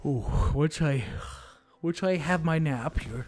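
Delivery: lightly voiced cartoon old man; a hint of a feisty ninety-year-old; vintage cartoon voice. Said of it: "like a cartoon, like, ninety-year-old".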